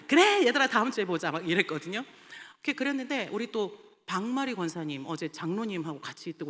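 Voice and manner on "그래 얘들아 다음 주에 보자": loud, high cheerful farewell; teacher waving the kids off, loud and upbeat; cheery send-off. Retold or imitated. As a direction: call out brightly to the kids.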